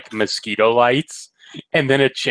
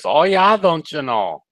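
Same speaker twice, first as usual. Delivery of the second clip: put-on Midwestern accent; 3 semitones higher, 3 dB louder than usual. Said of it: "Same with Midwesterners".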